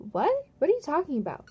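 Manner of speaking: high-pitched, incredulous questions; taken aback. Retold or imitated. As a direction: act out baffled disbelief, jumping up high. Retold baffled reply to accusing boss.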